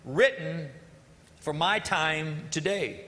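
slow, spoken song lyrics; slow lyric recitation; reciting lyrics. Shown as a demonstration. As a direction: read the verse slowly, savoring them. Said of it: "The second verse says".

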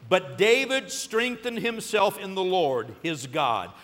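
reads the verse slowly, deliberately; slow and solemn, each word weighed; slow scripture reading. Real, not acted. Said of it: "The last part says what?".

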